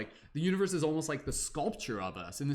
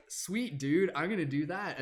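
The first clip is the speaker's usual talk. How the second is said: higher, chill surfer-dude agreement; eager surfer reply; 4 semitones higher than usual. Acted. You answering the universe, higher laid-back surfer dude. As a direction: toss it off like a stoked bro. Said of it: "And you're just like".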